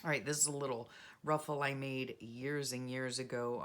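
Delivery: normal talking voice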